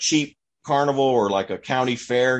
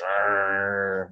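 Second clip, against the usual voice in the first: mock dog growl; 4 semitones lower, 3 dB quieter than usual. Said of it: "he's just got this low growl going".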